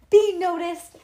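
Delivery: high, loud wounded protest; moaning complaint. A narrator's reading. Nancy to her mom about Bean, loud moaning. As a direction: moan it loudly in self-pity. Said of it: "Nancy moaned".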